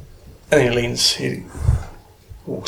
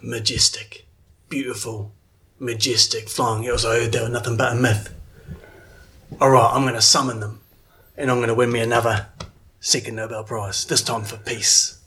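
awed wonder; 4 semitones lower than usual. Acted. Statham voiced in awe.

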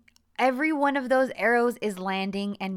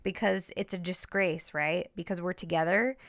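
mildly sarcastic mock agreement; retold wounded sarcasm, sinking as it goes; a little sarcastic. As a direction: concede every point with light sarcasm, acting out his bitterness. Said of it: "he's a little sarcastic".

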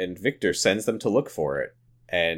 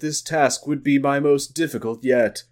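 Kyle; 5 semitones higher than usual. Acted. Host playing along with co-host, mock narration voice. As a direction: intone it like mock dramatic voice-over. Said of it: "Kyle voice".

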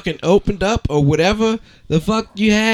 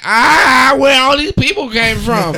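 higher, louder startled wake-up; mock bewildered; 9 semitones higher, 3 dB louder than usual. Friend acting out waking up after surgery, mock startled. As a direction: act dazed and startled, coming to.

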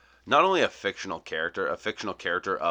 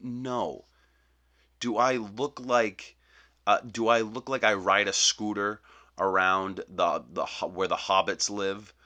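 indignant; 3 semitones higher, 3 dB louder than usual. Acted. Indignant refusal at Burger King.

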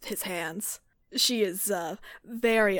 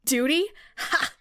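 scornful scoff; 3 semitones higher than usual. Acted. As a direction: spit the word back with contempt. Gale scoffs at duty.

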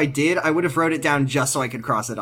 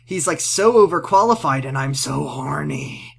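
lightly voiced sleazy creep; a hint of a leering creep; 2 semitones higher than usual. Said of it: "why you said that in creep voice".

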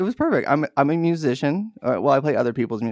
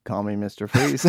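imitating deadpan; 4 semitones lower, 3 dB quieter than usual. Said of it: "so deadpan".

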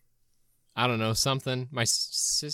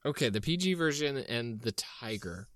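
whispering; 4 semitones lower, 7 dB quieter than usual. Real, not acted. Whispers aside.

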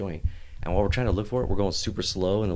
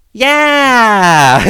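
laughing yeah; 11 semitones higher, 14 dB louder than usual. Retold or imitated. Cocky admission to cop, laughing.

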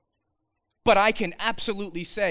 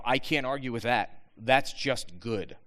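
impressed; 5 semitones lower than usual. Retold or imitated. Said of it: "we look at and go".

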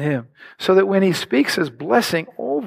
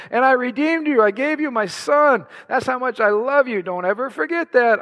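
acted fatherly affection, climbing higher; affectionate God; 4 semitones higher than usual. Preacher voicing God claiming Autumn as his daughter, affectionate. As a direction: earnestly reassure a beloved daughter, pitch rising as it builds. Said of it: "He's like".

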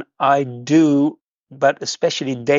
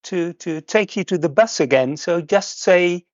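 higher-pitched, lightly voiced kind lady; retelling the woman at the stop, lightly voicing her higher and kind; imitating a helpful woman; 5 semitones higher than usual. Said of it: "she said".

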